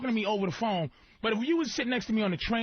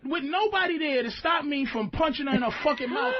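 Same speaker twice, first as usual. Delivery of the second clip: heated rant; 4 semitones higher than usual. Real, not acted. Ranting about punching her.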